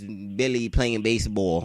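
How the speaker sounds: put-on light New York accent on "baseball"; imitated New York accent. Classmate announcing her poem's title, imitated New York accent. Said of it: "you fucking up the word".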